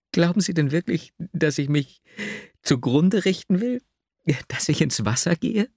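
high, rising questions in a heroine's voice; incredulous questioning. A narrator's reading. Heroine incredulously questions his fears. (ungläubig fragend, hohe Stimme)

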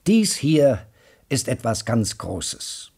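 overexcited announcement; bursting with excitement; voice cracking with excitement. Acted. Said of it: "Seine Stimme überschlug sich vor Aufregung".

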